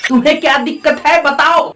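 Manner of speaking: fast, challenging repeat of तुम्हें क्या दिक्कत है; fast demanding challenge; pushier retake. Acted. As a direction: fire the question back quickly.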